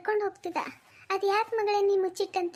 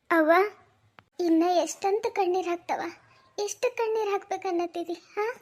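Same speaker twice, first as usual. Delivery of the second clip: distressed pleading; 4 dB louder than usual. Acted. Parent pleads with crying daughter.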